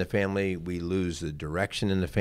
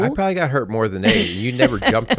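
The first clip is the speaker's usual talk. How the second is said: higher, louder, fast mock grievance; playful whine, higher and quicker; teasing complaint; 5 semitones higher, 6 dB louder, faster than usual. Real, not acted. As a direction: rib your wife for never defending you. Husband teases wife playfully.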